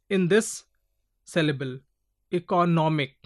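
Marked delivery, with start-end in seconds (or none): 2.3-3.2 "Economic" with nom emphasized; stress on nom. Shown as a demonstration. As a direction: lean on the third syllable of "Economic". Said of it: "N O M is given more stress".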